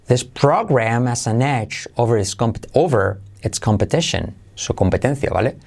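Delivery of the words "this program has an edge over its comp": "has" said "as", linked to "program"; dropped H. Shown as a demonstration. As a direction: run "program has an edge" together, no H. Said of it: "saltarte la H de has". ("has" sin H, todo enlazado)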